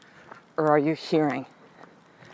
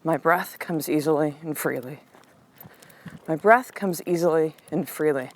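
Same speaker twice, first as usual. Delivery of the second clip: gentle breathing mantra; soothing mantra; 3 semitones lower than usual. Retold or imitated. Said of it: "Say this with me".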